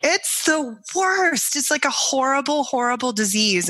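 milk it like a tragedy; dramatic. Real, not acted. Exaggerating how sick she was.

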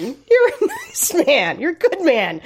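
gentle Irish lilt, laughing through it; mild Irish sister, breaking into a laugh; Irish accent. Retold or imitated. Sister reassuring her brother, light Irish accent with laughter. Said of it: "she's like".

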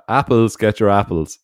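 wooden street seller call; bad acting. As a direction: stiff hammed-up apple hawker. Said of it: "It said".

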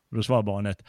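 ordinary talk, nothing marked

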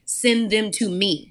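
slow and deliberate, each word placed; slow voice of the Lord. Retold or imitated. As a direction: hand it over gently and slowly. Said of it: "feel the Lord, even in this moment, say".

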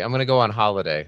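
quick mock British holiday line; a hint of posh British, fast. Host playfully imitating British holiday talk. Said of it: "that just sounds so, so regal".

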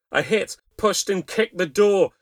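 high, loud, urgent storytelling; frantic narration. A narrator's reading. Mother battering her way to her screaming child, frantic narration. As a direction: keep the panic up through the action.

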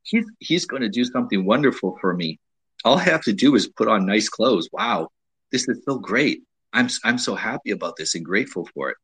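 grateful delight. Retold or imitated. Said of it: "You want a woman who says".

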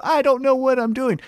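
high, helpless confused voice; lightly high helpless voice; mock confused. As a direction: play lost and bewildered. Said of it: "during the match where the".

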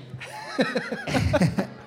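real high breathy laughter. Real, not acted. Player finishing coach story, high laughter. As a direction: let a high laugh trail off.

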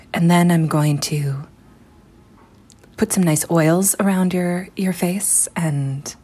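unvoiced ASMR whisper, slowing down; breathy spa whisper, soothing and slow; soft-spoken ASMR. Shown as a demonstration. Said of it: "can you do an example soft-spoken".

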